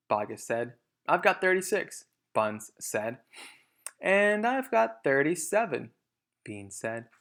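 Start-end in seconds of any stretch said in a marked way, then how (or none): 1.1-2.0 boastful farmer. Acted. 4.0-5.9 high, slow boast topping the others; a hint of a smug farmer crowing; boastful farmer. Third farmer tops the others.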